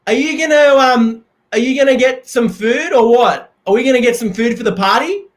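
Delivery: high, loud, hammed-up frantic voice; Forrest Gump impression. A man begging his housemate to buy party food, high and loud. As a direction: bluster through it like a harried guy on the phone. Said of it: "here's my Forrest Gump impression".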